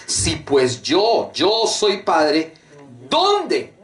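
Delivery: sarcastic divine rebuke, slow and pointed; sarcastic God. Acted. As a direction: drag it out mockingly, then jab the question up. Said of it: "Ahí está el sarcasmo del Señor".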